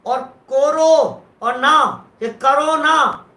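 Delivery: कोरो और ना said slowly with clear breaks; slow split reading. Shown as a demonstration. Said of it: "करते क्यों नहीं हो". (कोरो और ना धीमे अलग-अलग)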